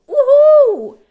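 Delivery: high, loud mock cheer. Streamer gloating about cashing in, loud mock cheer. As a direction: whoop up high like a gleeful winner. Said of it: "I'm gonna go".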